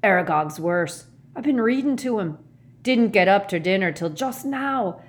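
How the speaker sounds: loud, slightly breathless bursts; panting. A narrator's reading. Hagrid explains his lateness after striding in, panting. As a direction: blurt it out loudly between puffs. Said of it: "he panted".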